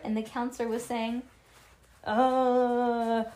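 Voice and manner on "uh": loud, drawn-out zombie groan; zombie moan. A narrator's reading. Bean playing zombie at puppet camp, moaning. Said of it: "moaned Bean, the zombie".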